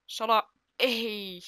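long drawn-out groan of no; loud-ish stretched wail of disappointment; dismayed cry. Real, not acted. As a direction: cry out as the chance slips away. Chance lost in live match.

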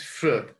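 "fruit" said as FROOT; one-syllable "fruit", i left silent. Shown as a demonstration. Teacher correcting students, "fruit" without any i sound. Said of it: "La I no se pronuncia".

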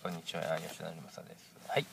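nasal voice from a cold; stuffy nose. Real, not acted. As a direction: speak through a blocked nose. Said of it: "鼻声で申し訳ございません".

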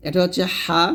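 হা pushed from mid-throat; Arabic ḥa demo; pressed throat ha. Shown as a demonstration. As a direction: squeeze হা out of the throat. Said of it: "হলকের মাঝখান থেকে চাপ দিয়ে".

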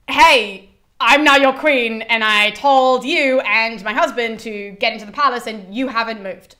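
retold queen laying down the law; imperious. Clytemnestra ordering Cassandra into the palace, imperious.

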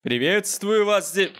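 slow, high alien greeting. Pretend. Alien greeting for app to repeat.

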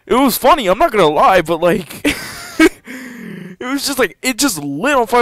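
high-pitched telling broken by laughter; cracking up mid-sentence, pitch way up; real amusement. Real, not acted. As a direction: laugh your way through the story. Laughs while telling funny story.

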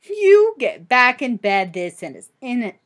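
firm storybook mother, a touch loud; mildly stern command; motherly order. Acted. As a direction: order a child off to bed. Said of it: "her mother ordered".

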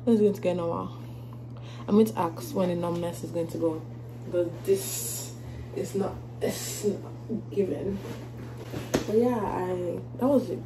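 slurring through numb lips. Real, not acted. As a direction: talk with half a numb mouth. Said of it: "my lips are actually so numb".

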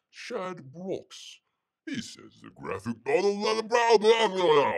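playing up a broad Aussie voice for the viewer's comment; Australian accent. Host reading Shad's comment to the chat, in a mock Australian accent. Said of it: "you gotta talk like this".

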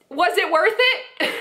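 slow, laughing rhetorical question; laughing jab. Real, not acted. Commentator laughing at the prankster chasing likes, slow jab. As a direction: ask it through a laugh, slowly.

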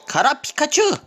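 very high panicked scream; panicking gamer. Real, not acted. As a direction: scream for help as you lose. Panic in losing fight. (당황해서 비명 지르는 게이머)

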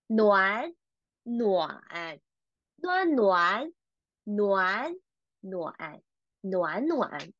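slow drill of second tone then third on "nuan"; tone-change drill. Shown as a demonstration. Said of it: "change the first one into the second tone".

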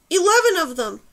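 high, loud warning shout; yelling. A narrator's reading. Girl pointing out attackers to companion, urgent yell. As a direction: shout the count to your companion. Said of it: "she yelled to Numer".

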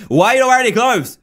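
fast, high, incredulous exclamation; incredulous outburst. Real, not acted. Player challenges a naked figure, incredulous. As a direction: blurt it out in disbelief. Repeats the question, now exclaiming.

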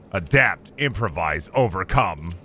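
low, deep mock-tough voice reciting a motto; gruff meme quote. Gamer reciting a tough-guy meme motto, deep mock voice. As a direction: growl it like a drill sergeant.

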